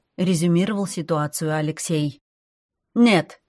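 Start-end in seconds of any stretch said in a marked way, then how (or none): 2.9-3.4 loud, happy, high no; joyful no. A narrator's reading. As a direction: cheerfully object at once. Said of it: "очень даже радостно".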